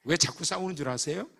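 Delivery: ordinary talk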